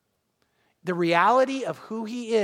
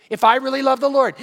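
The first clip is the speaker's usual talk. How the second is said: fervent repeat; 4 semitones higher, 6 dB louder than usual. Acted. Preacher repeats, louder.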